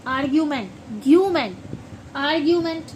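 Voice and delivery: आर्ग्यूमेंट with clear "gyoo"; teacher repeats आर्ग्यूमेंट for students; आर्ग्यूमेंट said as ar-gyoo-ment; model pronunciation of argument. Shown as a demonstration. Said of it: "आर्ग्यूमेंट होता है ना".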